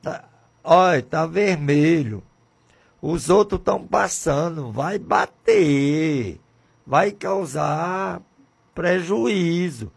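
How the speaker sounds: high, urgent call to stop at the red light; shouted warning. Acted. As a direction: yell out to warn the driver. (aviso gritado e agudo)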